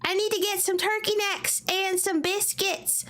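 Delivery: slow mock Southern drawl; a hint of a put-on Southern accent. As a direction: drawl a grocery list like a local. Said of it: "Say it with a southern ac".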